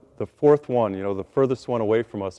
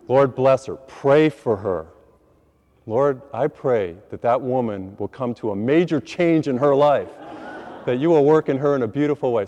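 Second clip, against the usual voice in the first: prayer voice. Retold or imitated. Prayer for the woman.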